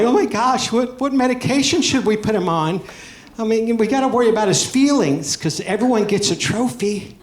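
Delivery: high, panicky parent imitation; hammed-up worried parent, pitch pushed way up; mock freak-out. Parents hearing their son has ADHD, mock freak-out. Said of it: "and they'd freak out".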